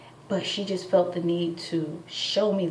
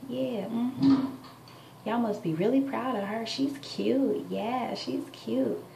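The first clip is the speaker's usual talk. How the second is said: nosy neighbor; 6 semitones higher, slower than usual. Retold or imitated. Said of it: "She's like".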